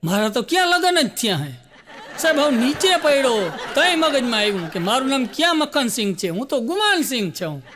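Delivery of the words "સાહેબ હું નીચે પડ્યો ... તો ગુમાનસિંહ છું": laughing through it. Acted. Comedian laughing while telling the falling Sardarji's punchline. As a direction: crack up as the twist lands.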